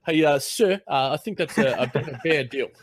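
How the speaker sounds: mock a polite New Zealander turning down a trade; horrible Kiwi accent. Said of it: "that's my horrible Kiwi accent".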